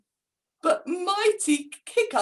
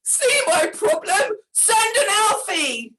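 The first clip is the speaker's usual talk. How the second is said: pleading; 7 semitones higher, 5 dB louder than usual. A narrator's reading. Santa pleading with hiccups.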